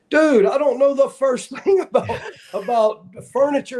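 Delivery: laughing disbelief. Retold or imitated.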